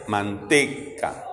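slow "Manteca." with long TE; stress on TE. Shown as a demonstration. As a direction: stretch the middle syllable of "Manteca.". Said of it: "Manté son dos. Man y té".

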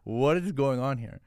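slow, mildly exasperated retort; indignant protest. Retold or imitated. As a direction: protest emphatically, drawing the words out a little. Retells protesting the HIV questions.

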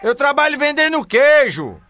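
"Eu trabalho vendendo queijo" said slowly and carefully so she hears it. Real, not acted. Caller repeating for the grandma who didn't hear, slow and clear. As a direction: spell it out again, slowly. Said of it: "O quê?".

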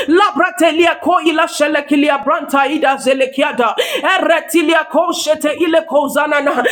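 rapt, unbroken stream of prayer syllables; praying in tongues. Real, not acted. Preacher praying in tongues amid congregational thanksgiving, fervent glossolalia.

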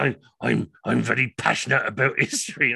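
halting, put-on earnest voice; lightly mock an intense history buff; imitating an over-passionate stranger; intense oddball. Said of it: "one of the most intense people".

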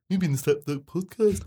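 put-on a weak stab at a Birmingham accent, breaking into laughs; amateur Brummy accent that keeps cracking up; bad Brummy accent. Podcast host sign-off in a bad Birmingham accent, laughing. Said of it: "the worst Brummy accent".

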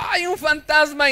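frightened disciples crying out at a ghost in the dark. Retold or imitated. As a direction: cry out as if you saw a ghost. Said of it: "Pero ellos dijeron".

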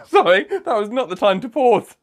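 high-pitched, laughing apology; real helpless giggle through the words; embarrassed laughing. Real, not acted. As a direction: crack up at your own slip. Cracks up at his own innuendo.

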